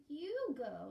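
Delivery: put-on high, loud, slow child voice; whiny little boy. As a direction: drag it out like a scared small boy. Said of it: "he pulled Chaim".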